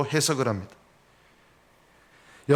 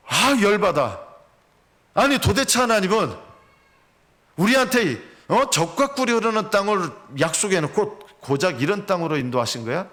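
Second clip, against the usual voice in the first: mock angry complaint; 5 semitones higher than usual. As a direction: vent at God, fed up. Acted angry Israelite complaint.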